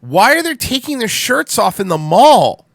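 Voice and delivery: high, loud, drawn-out disbelief; incredulous outcry. Real, not acted. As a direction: call it out slowly in amused outrage. Reacting incredulously to clip.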